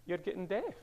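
wife scolding. Retold or imitated. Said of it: "and she said".

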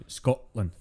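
SCOTLAND with the T dropped to a catch in the throat; glottal T. Shown as a demonstration. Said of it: "We don't do it. It's a, uh".

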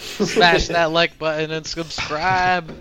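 slow, drawn-out YouTuber sign-off; YouTuber outro. Pretend. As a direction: drag it out like a hammy YouTuber.

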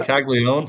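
"Caglione" with a hard G, English style; anglicized pronunciation. Shown as a demonstration. Host giving up on the Italian name, anglicized pronunciation. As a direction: say "Caglione" the American way, G sounded. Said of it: "I'm gonna say Caglione for the whole year".

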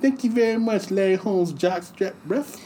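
high squeaky lisping Tyson voice, way up; Mike Tyson impression. Tyson doing his monologue to the crowd, in a high squeaky voice. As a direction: mimic Tyson's high voice hard. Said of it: "with Mike Tyson and Don King".

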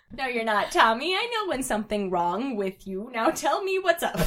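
lightly voiced baby friend; mild baby voice. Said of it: "He said in a baby voice".

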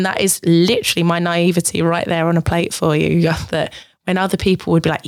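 ordinary delivery

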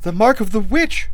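high, loud horror; horrified queen, voice leaping up; recoiling cry. A narrator's reading. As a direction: cry out as you shrink back. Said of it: "cried Taramis, recoiling".

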